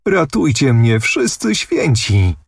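a hammed-up tearful wail; mock sobbing. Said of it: "powtarzała łkając Anusia".

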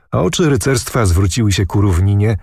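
ordinary delivery

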